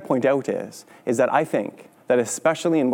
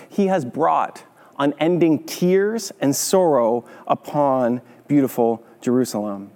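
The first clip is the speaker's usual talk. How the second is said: scripture reading. Acted. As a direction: let the brutal verses land heavily.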